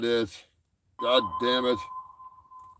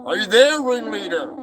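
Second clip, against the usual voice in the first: calling out; 6 semitones higher, 4 dB louder than usual. Acted. Calling over the radio.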